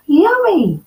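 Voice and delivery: high, loud delighted squeal; delighted cry. Acted. Girl finding the perfect porridge, squealing. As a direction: squeal with joy. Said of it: "she cried".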